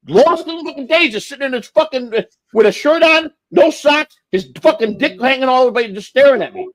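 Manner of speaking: high-pitched disbelieving retelling; excited disbelief. Real, not acted. Excited retelling of naked colonel.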